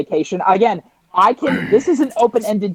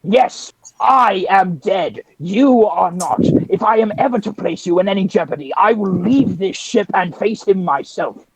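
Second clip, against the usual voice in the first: solemn Jedi. Acted. Jedi character answers in quarrel.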